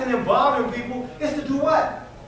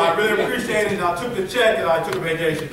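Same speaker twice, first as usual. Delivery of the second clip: a lower, mumbling imitation of Herman; mock Herman, low and bashful; 6 semitones lower, faster than usual. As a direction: lightly voice a sheepish Herman, much lower. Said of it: "my Herman voice".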